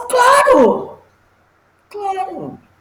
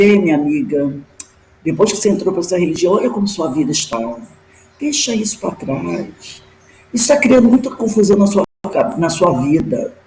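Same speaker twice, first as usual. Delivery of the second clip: lower, unhurried and coaxing; silky persuasive spirit voice, lower; soft, smooth voice; 5 semitones lower than usual. Retold or imitated. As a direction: coax her gently like a tempting spirit. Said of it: "mas era muito suave".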